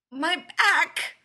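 high, squeaky pained cry; almost a squeak. A narrator's reading. Leonard repeating himself under the stranger, pained squeak. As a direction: squeak out BACK in pain, loud and high. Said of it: "comes out almost as a squeak".

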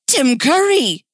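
high, loud, drawn-out exclamation; hammy astonishment; gasped revelation. Acted. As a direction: blurt the name in mock shock. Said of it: "Cass gasped".

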